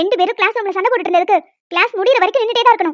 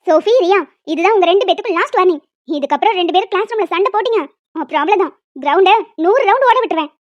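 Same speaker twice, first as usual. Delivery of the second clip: stern warning; 3 dB louder than usual. Acted. Teacher gives final warning.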